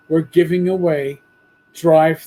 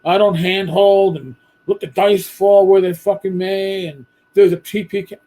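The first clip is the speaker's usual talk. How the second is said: gruff, dismissive grognard voice; mocking grognard; 4 dB louder than usual. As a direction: sneer it like a stubborn old-timer. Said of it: "old school grognards is like".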